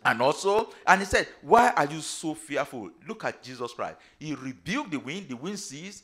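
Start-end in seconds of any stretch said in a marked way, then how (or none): 1.4-2.9 loud, challenging question; forceful rebuke. Acted. Preacher quoting Jesus to the fearful disciples, loud rebuke. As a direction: put the question out firmly and loudly.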